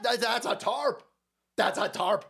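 half-hearted movie-alien catchphrase; a loose stab at a famous character's warning; Admiral Akbar. Retold or imitated. Streamer spoofing a movie warning, badly faked character voice. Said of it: "Can't do an Akbar accent".

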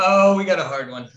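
laughing mock quote. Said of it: "and I'm like".

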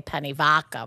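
"penne vodka" in a Long Island accent, with vodka said as "vadka". Shown as a demonstration. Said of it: "I'm saying it like that on purpose".

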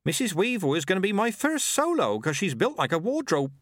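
put-on high, flustered young voice; young midwife flustered at the praise; hunted girl. A narrator's reading. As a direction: babble nervously, voice way up. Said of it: "now looking hunted".

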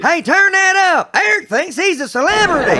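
pumped-up DJ shout-out; excited radio host. Acted. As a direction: call it out like a radio jock. Mock host voice.

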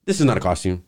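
slow, emphatic retold comeback; imitated pointed correction. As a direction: set the interviewer straight, imitating an offended star. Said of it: "she made sure to let her know".

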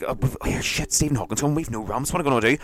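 usual speaking voice

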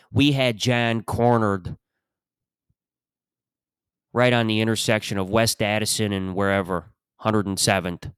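measured Chicago cop storytelling; old Chicago detective accent. Acted. Detective describing a suspect cornered at an intersection, Chicago accent. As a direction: recount it like a retired Chicago detective. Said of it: "It's just the same guy".

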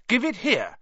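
high call, not quite a yell; called demand. A narrator's reading. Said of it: "Harry called".

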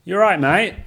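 hammed-up British greeting, high and loud; mock British lad's hello; British accent. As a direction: play at being a Brit. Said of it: "how to do a British accent".

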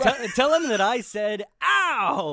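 high, loud dopey voice; dim henchman voice. Retold or imitated. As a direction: deliver it like a dim brute. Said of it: "you know".

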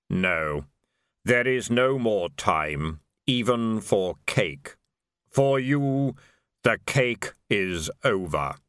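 the reaper closing the matter without hurry; Death, calm and final. Acted. Death's held voice.

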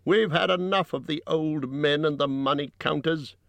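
high-pitched protest from the crowd; shouted reply. A narrator's reading. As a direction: call out the grievance in a high voice. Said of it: "shouted in reply".

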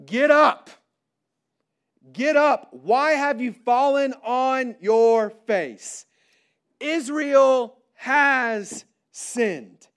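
God's stern command, preached with weight; forceful scripture reading. Acted.

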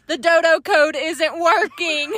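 slow, emphatic mock complaint; retold sleep yelling. Sleep-talking wife to husband, slow exasperated mock complaint. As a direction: spell it out with exaggerated exasperation. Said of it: "you were yelling at me last night".

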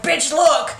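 high, laughing brag; gleeful gloating. Acted. Amateur investigator presenting her find to a friend, gleeful. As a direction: show off the catch through a laugh. Gloating over what she found.

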